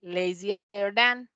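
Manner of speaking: drawn-out, careful English; slow model phrase. Shown as a demonstration. Teacher showing the comparative form to class, slowly.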